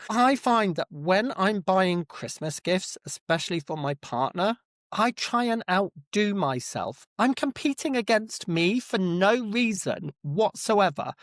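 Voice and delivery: usual speaking voice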